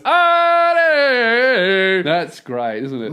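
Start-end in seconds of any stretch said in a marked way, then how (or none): 0.0-2.0 higher, louder bratty prank-caller shout; mock teen yell. Fourteen-year-old prank caller shouting at Mark, mock yell. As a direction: yell it like a kid taunting on the phone.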